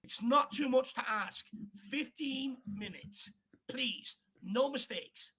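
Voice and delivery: slow, weary real plea. Real, not acted. Fan pleading for safe minutes.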